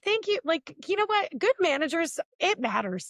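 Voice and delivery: high, bright thank you; grateful thanks. Retold or imitated. Thanking the manager who chased them, high-pitched. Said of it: "which I was like".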